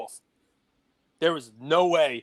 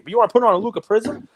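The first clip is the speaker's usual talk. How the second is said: incredulous; 5 semitones higher, 5 dB louder, faster than usual. Real, not acted. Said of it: "I'm getting angry".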